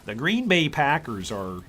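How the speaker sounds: lightly put-on Wisconsin accent, easygoing. Streamer teasing about Packers country, mock Wisconsin accent. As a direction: imitate Upper Midwest locals in a Wisconsin accent. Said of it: "That's what those people in Wisconsin say".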